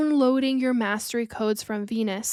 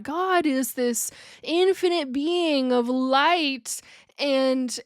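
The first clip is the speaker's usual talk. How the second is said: triggered critic; 2 semitones higher than usual. Retold or imitated. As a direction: lightly voice an offended listener scolding. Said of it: "someone out there gets triggered and is like".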